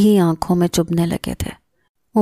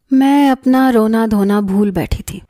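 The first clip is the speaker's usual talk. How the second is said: ordinary delivery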